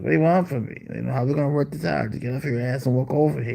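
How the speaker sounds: mock exasperation. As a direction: argue playfully with a demanding pet. Acted argument with yelling cat.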